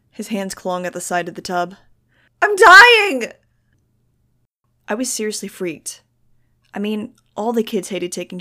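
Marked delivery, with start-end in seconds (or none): 2.4-3.3 screaming wail, pitched very high. A narrator's reading. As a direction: scream it out at the top of the voice. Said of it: "Iggy wailed".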